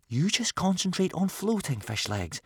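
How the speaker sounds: high, gentle coaxing, dropping on the name; soothing hush. A narrator's reading. Boy telling friend to float, soothingly. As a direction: coax him calm without alarming him. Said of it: "whispered Hiccup soothingly".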